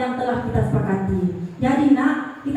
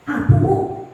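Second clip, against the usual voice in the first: mildly cross, higher-pitched retort; mock angry; 4 semitones higher, 4 dB louder, slower than usual. Teacher demonstrates the angry way for colleagues, mock cross. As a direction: act out a touch of annoyance. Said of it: "Nah, itu marah-marah tuh kan".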